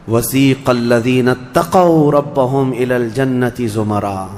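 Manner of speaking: slow chanted verse, falling at the close; Quranic recitation. Acted. Preacher reciting the verse about paradise, slow and chanted. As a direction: intone it gently.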